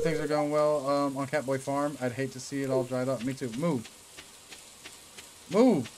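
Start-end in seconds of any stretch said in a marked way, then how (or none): 5.5-5.9 sharp impatient yell; loud shout. Real, not acted. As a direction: bark it out to clear the way. Yelling at the game character.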